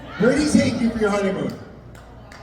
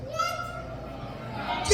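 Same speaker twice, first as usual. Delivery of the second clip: high breathless gasp of disbelief; mock shock; 11 dB quieter than usual. Groom gasping at the wedding custom.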